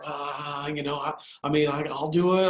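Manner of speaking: flustered, halting false starts; mock being nervous and lost for words; imitated nervous stammer. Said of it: "freaking out. She's nervous".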